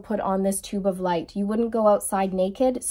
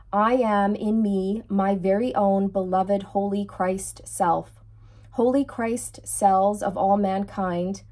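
measured, rhythmic decree reading; steady prayerful recitation. Real, not acted. Reads Archangel Michael decree aloud.

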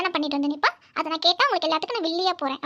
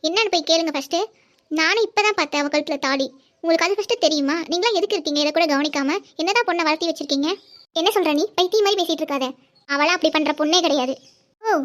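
heated, insistent accusation; angry. Acted. Accusing the family over a secret wedding, angry. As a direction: press the accusation with mild anger. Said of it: "இவ்ளோ கோவம் வேண்டாமே".

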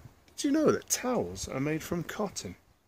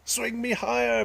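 put-on begging child; 10 semitones higher than usual. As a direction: plead to go higher, pitched up like a little girl. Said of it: "begged Flora".

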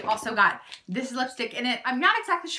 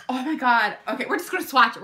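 usual speaking voice

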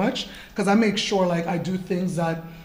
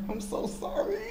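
laughing apology; 14 semitones higher, 7 dB quieter than usual. Retold or imitated. Tripping on the red carpet, apologizing.

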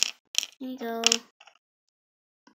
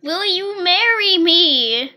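earnest proposal; 6 semitones higher, 12 dB louder, slower than usual. Pretend. Doll proposal, loud and slow.

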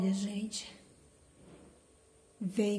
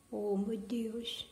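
soft breathless whisper of wonder; awed whisper; 6 dB quieter, slower than usual. Real, not acted. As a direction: whisper it slowly, as if stunned by the flower. Maravilhada com a orquídea. (sussurro maravilhado)

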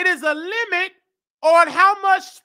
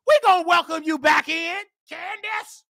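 "We gonna welcome you back in" pushed out, rising on we; louder preachy call. Real, not acted. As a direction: call it out like a sermon refrain. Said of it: "repeated line, now shouted".

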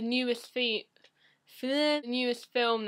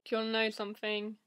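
fast conspiratorial whisper; hushed teasing whisper; much faster than usual. Pretend. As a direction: lean in and whisper the secret. Secretive aside to viewer.

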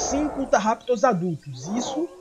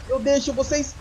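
louder gloating word then smug laugh; 3 semitones higher, 4 dB louder than usual. Pretend. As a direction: gloat like a victorious predator. Gloating over raptors.

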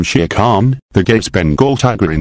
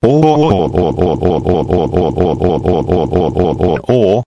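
mechanical wavering "oh-oh-oh"; looping "oh" cry; 3 semitones lower than usual. Pretend. Narrator acting out his rampage, looping cry.

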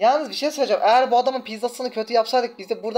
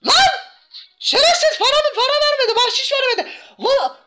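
high, loud and laughing in disbelief; furious laughing outburst at the stingy customer; outraged laughing shout; 9 semitones higher, 5 dB louder than usual. Real, not acted. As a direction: yell at the cheapskate through laughter. Customer left without tip.

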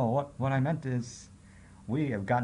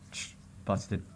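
breathy hush; whispered aside; 4 semitones lower, 4 dB quieter than usual. Acted. Caught player whispering busted to herself. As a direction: whisper it to yourself.

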